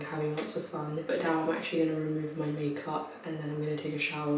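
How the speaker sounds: hushed late-night whisper; library whisper. Real, not acted. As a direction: keep it hushed, neighbours asleep. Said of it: "I'm whispering because people will be trying to sleep".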